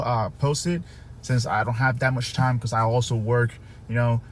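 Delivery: talking around a dental retainer; slightly slurred, retainer in mouth; wearing a retainer. Real, not acted. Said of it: "if you hear me kinda talking weird".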